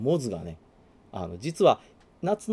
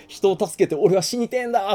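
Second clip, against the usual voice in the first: higher, louder rough vow; hero's vow; 8 semitones higher, 5 dB louder than usual. Retold or imitated. Fan quoting Aramaki's death wish, higher and louder. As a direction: declare it like a man seeking death. Voicing Aramaki's grim resolve.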